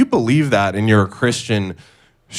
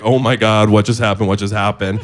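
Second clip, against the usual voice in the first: panicked disbelief. Retold or imitated. Panic after the accident.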